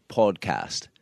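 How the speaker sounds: put-on "Podcast" said with a light British accent; a hint of British on "Podcast"; mock British "Podcast". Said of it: "he suddenly gets a British accent".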